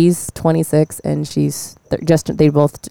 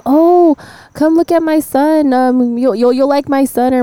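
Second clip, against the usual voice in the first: playing the lady who pushes her son, higher; high mock older woman; 9 semitones higher than usual. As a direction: lift the voice into an eager aunt offering her son. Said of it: "People see me".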